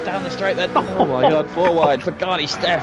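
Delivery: excited high-energy race call; loud and rising with the chaos; motorsport commentator. Real, not acted. Live race commentary crash chaos.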